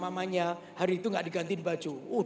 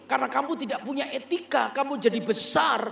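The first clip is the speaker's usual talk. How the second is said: raised, higher, urgent preaching; passionate fatherly lecture; 7 semitones higher, 5 dB louder than usual. Retold or imitated. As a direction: nasihat ayah yang berapi-api, lebih keras dan tinggi. (ayah menegur anak dengan suara keras dan tinggi)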